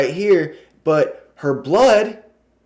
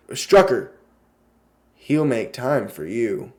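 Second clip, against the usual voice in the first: eerie ad tagline; 4 semitones lower than usual. Retold or imitated. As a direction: let the brand name hang, then sink. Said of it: "And then he says".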